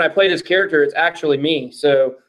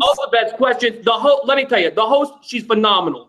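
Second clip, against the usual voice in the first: lightly voiced bragging politician; a hint of a boastful president; Donald Trump; 4 semitones higher than usual. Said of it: "How did Donald Trump get".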